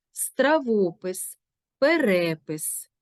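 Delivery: slow стравопис, перепис stressed before пис. Shown as a demonstration. Teacher reading examples slowly for the class. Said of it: "наголос на голосному, що стоїть перед цим компонентом".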